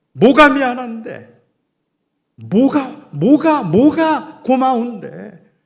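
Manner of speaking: high, full-force anguished yelling at a son; loud reenacted father's outburst; outburst shout. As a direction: cry out as if you can't help it. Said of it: "저도 모르게 제가 소리를 질렀어요".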